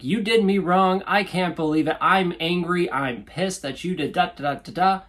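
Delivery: mock angry blaming. Shown as a demonstration. Coach showing how not to vent, mock accusing. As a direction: show the wrong way, accusing. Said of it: "It's not saying, like".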